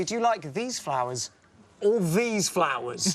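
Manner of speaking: slow, pointed choice with a rising "or"; options in Derren Brown style. Retold or imitated. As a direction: lean on the choice like a mind trick. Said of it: "present options in the style of Derren Brown".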